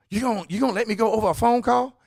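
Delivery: mock the worker's shocked protest; a retold "are you serious?" burst; indignant disbelief.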